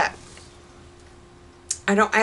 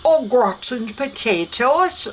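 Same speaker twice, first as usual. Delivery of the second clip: mock English accent; 3 semitones higher than usual. Shown as a demonstration. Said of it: "speak with an English accent".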